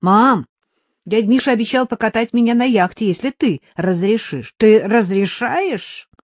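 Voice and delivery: put-on high, eager little boy; young boy voice. Son tells mother about ping-pong, in a high boyish voice. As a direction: chirp it like an excited kid.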